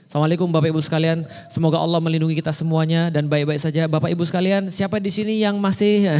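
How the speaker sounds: quick, offhand preacher greeting; casual sermon parody. Shown as a demonstration. Preacher mocking a too-casual Friday sermon, quick and light. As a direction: rattle it off like a sloppy khotib. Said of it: "khotib Jumat ngomongnya kayak gini".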